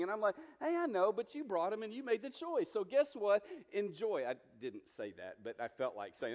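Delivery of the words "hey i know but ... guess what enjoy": mock cheeky jab, pitched up; sassy inner monologue. Pastor imagining a retort to Disney parents, cheeky and pitched up. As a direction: tease the worn-out parents, hammed up. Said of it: "internal monologue going on in my mind".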